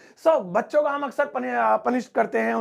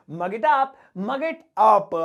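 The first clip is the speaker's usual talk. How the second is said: slow model phrase; much slower than usual. Shown as a demonstration. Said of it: "इसे English में बोलेंगे".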